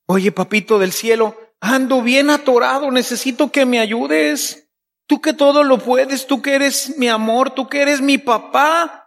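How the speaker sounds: heartfelt plea to God; pleading prayer. Shown as a demonstration. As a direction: beg your dad for help. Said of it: "le podemos platicar".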